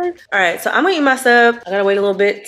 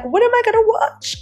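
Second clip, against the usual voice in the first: mock panic; 14 semitones higher than usual. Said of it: "I'm like".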